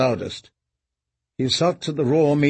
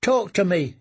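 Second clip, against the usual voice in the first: put-on boy voice; 5 semitones higher than usual. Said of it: "said one of them".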